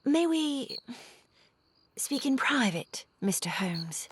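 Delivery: hushed private question; whisper. Acted. Irene asking Holmes for a private word, whispered.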